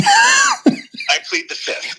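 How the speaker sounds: drawn-out, very high mock plea; hammed-up high plea to avoid admitting the army is unfinished; mock evasive. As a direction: stretch it out slowly, playfully dodging the question. Dodging the unfinished-army question.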